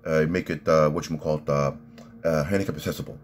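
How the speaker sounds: halting mobster impression with a slight lisp; lightly voiced, stammering Sopranos gangster; Silvio Dante. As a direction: imitate a wiseguy searching for the words. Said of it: "Silvio Dante's like".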